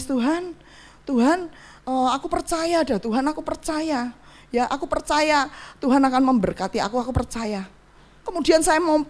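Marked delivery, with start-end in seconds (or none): 0.0-7.7 softly retold plea to God; a subdued, mildly pleading retelling of prayer; tearful prayer. Retelling her prayer to God during pandemic hardship, mildly tearful. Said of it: "Saya cuma nangis".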